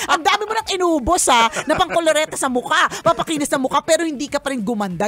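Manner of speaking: laughing through the sassy jab; sassy comeback laughing. Retold or imitated. Mocking the critic's makeup while laughing. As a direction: tease with a laugh. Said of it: "sasabihin mo sa kanya ganito".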